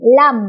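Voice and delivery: "lam" ending on closed lips; no bounce. Shown as a demonstration. Teacher repeats the correct reading, unbounced "lam". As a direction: finish "lam" cleanly on the m. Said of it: "tidak boleh mantul".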